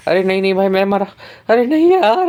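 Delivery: dismayed cry. Real, not acted. Dying in the match.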